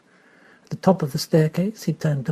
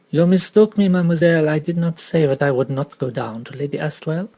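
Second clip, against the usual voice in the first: lightly voiced Belgian detective, precise and polite; a hint of Poirot, courteous correction; Poirot's French accent. Detective gently correcting the girl, lightly French.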